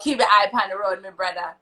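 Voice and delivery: a light attempt at a Jamaican accent; learner's try at Jamaican patois; imitating Jamaican. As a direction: copy the Jamaican phrase back. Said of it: "That was good".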